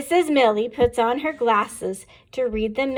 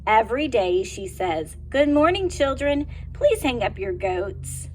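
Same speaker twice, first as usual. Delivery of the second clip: put-on reading to children. A narrator's reading. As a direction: read it brightly to little kids. Teacher reads picture book aloud.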